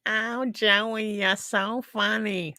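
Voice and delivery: put-on high, slow nasal New Jersey accent; New Jersey whine like Janice; Janice from Friends. Streamer imitating a New Jersey accent like Janice. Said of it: "sounds like Janice from Fi".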